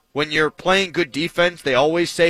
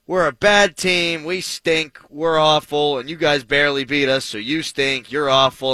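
mock chirping heckler; 2 semitones higher than usual. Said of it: "He's chirping at my friends".

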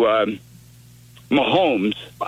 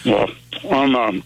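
chewing while talking; 5 semitones lower than usual. Real, not acted. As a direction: mouth full, eating while talking. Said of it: "I'm sorry to talk while I'm eating".

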